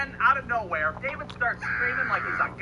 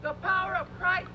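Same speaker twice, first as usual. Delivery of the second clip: mock exorcist; 8 semitones higher than usual. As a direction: draw it out like a panicked amateur exorcist. Mock exorcism of possessed friend.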